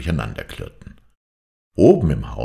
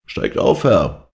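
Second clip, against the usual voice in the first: urgent call, somewhat higher and louder; servant calling out; 8 semitones higher, 5 dB louder, slower than usual. A narrator's reading. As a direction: call up to the master over the storm. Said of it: "rief der Knecht".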